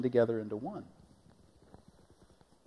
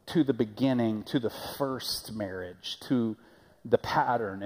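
patient Jesus; slower than usual. Retold or imitated. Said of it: "Jesus is always saying".

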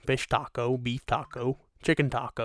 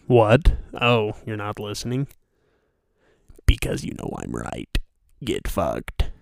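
mock retort; 6 dB louder than usual. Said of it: "turn around and say".

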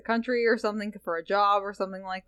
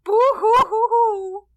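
high whiny fake sobbing; mock blubbering, hammed-up; fake crying; 11 semitones higher, 5 dB louder than usual. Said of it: "now he's like".

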